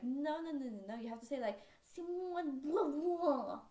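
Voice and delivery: mocking pedant. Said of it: "and it's like".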